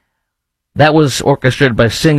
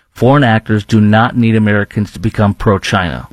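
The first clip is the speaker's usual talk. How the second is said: lower, measured re-read with "do not" said in full; slow, deliberate repeat; 4 semitones lower than usual. Shown as a demonstration. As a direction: read it out carefully so it sinks in. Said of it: "I'm gonna say this real s-, slowly".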